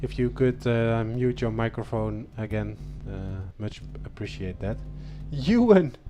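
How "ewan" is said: loud, high-pitched hail of a name; cheering shout. Real, not acted. Host hyping the fifth-placed driver, excited shouting. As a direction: holler the name to celebrate him.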